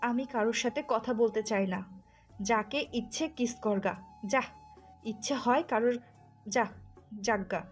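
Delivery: jealous, hurt dismissal in short bursts; wronged wife lashing out; angry rejection. Acted. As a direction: send him away with angry scorn. Jealous wife rejecting her husband.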